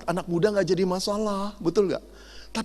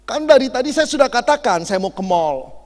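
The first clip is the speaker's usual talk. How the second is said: wife repeating herself, a bit louder and annoyed; irritated wife; 3 semitones higher, 5 dB louder than usual. Retold or imitated. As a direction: tell him again, fed up. Wife irritated, husband deaf.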